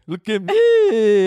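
slow, high, hammed-up sexy voice; drawn-out mock seduction; mock seductive. Mocking seductive pose.

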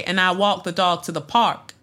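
demonstrating an African American accent. Shown as a demonstration. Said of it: "do an African American accent".

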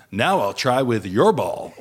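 put-on slow American accent; slow piece to camera in American accent. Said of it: "added to the piece to camera and said".

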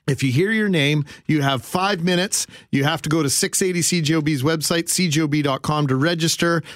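upbeat radio promo read; infomercial pitch. Acted. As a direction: read it like an on-air ad spot. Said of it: "so you do the spiel".

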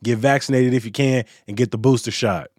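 upbeat news read. Acted. Host reads the closing news roundup to listeners, upbeat radio read. News segment over music.

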